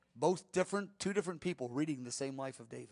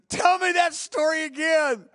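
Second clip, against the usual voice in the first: eager pleading; 13 semitones higher, 13 dB louder, slower than usual. Retold or imitated. David begging to hear it again.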